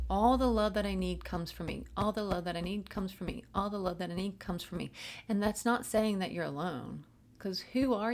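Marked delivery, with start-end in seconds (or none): 0.1-1.8 affirmation. Shown as a demonstration. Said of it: "Say that". 1.9-3.4 affirmation. Shown as a demonstration. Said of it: "Say that". 3.5-4.9 affirmation. Shown as a demonstration. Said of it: "Say that".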